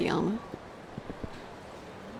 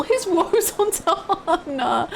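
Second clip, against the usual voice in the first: mock dismay; 9 semitones higher, much slower than usual. Real, not acted. Mock dismay over Hana's woes in game.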